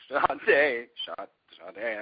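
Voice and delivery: chanting through suppressed giggles; trying to be serious. Retold or imitated. Student realizing the mantra is a singer's name, stifling laughter. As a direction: intone it while fighting laughter. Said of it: "I'm trying to be serious".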